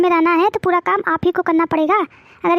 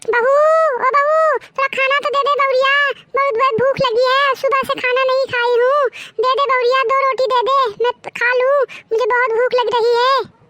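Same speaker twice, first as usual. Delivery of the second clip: put-on begging old woman; 3 semitones higher than usual. Hungry mother-in-law begging food.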